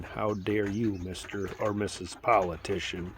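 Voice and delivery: imagined citizen telling off politicians, rising to anger; indignant rebuke. Retold or imitated. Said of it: "the American people should be saying".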